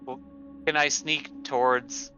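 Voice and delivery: ordinary talk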